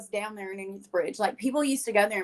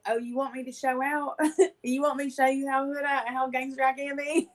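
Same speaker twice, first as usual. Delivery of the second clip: laughing through tears, voice catching; real emotion breaking into a teary laugh; half laugh, half cry, moved; choked up; 4 semitones higher than usual. Real, not acted. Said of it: "it'll choke me up".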